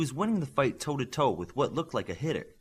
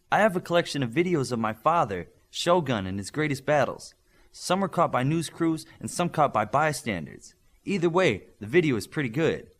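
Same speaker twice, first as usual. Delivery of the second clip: put-on louder, bright girl's announcement, pleased; girl proudly tells the team about her father's battles, louder; excited Shi voice; 4 semitones higher, 5 dB louder than usual. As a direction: show off the videos proudly, a touch higher and louder.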